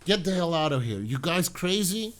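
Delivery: wife appalled by the plan; mock outraged refusal. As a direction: throw them out in disbelief. Wendy refusing murder plot.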